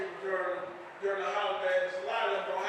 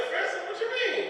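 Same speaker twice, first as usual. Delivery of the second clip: much higher, puzzled squeak; high confused reply to the man; confused surprise; 11 semitones higher than usual. Retold or imitated. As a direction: act baffled. Confused retort.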